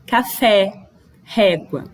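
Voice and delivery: "Café, régua" with a wide open stressed E. Shown as a demonstration. Teacher showing the acute on E, open vowel in "Café, régua". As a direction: separate "Café" and "régua", opening each accented E. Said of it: "o som é aberto".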